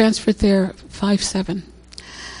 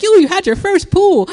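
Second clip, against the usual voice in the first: light imitation of a Haitian accent, high and excited; 10 semitones higher, 5 dB louder than usual. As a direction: mimic the doctor's Haitian accent. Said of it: "he has a Haitian accent".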